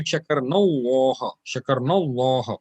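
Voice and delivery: "شكرنا الله" run together as shakarnallah; noon joined to lam. Shown as a demonstration. Teacher models the joined ending for students, "شكرنا الله" blended. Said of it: "mix the noon idgham with the lam".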